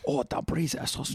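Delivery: whispered Asian accent imitation. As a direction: breathe it in a mock Asian accent. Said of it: "strong Asian accent".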